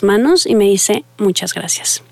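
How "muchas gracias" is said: soft, quiet, mildly teary thanks; a hint of tears in the thanks; tearful thanks. A mother thanking her son's therapist, soft and mildly tearful.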